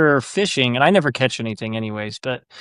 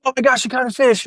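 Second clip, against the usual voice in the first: put-on much higher, a kid's thrilled squeal; mock excited child; 10 semitones higher, faster than usual. A dad voicing his daughter catching a fish, excited squeal.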